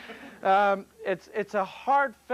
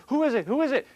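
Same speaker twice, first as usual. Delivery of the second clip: calling out; 8 semitones higher, 4 dB louder, faster than usual. Retold or imitated. Guy calls out to voice.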